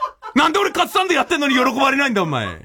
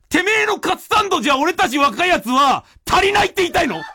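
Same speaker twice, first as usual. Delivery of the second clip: raised, half-joking rebuke; mock scolding; 5 semitones higher than usual. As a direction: scold the apprentice with a grin. Rakugo master scolding disciple.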